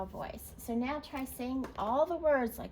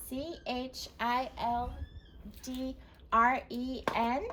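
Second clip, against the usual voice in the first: slow letter by letter; spelling out; slower than usual. Shown as a demonstration. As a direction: spell each letter slowly. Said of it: "So spell it".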